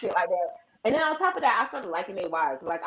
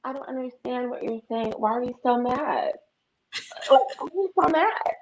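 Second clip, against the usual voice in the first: fake innocence; 2 semitones higher than usual. Sister mocking the caller with fake sweet concern. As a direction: play dumb sweetly. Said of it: "I'm like".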